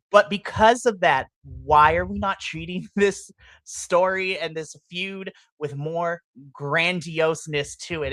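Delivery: ordinary talk, nothing marked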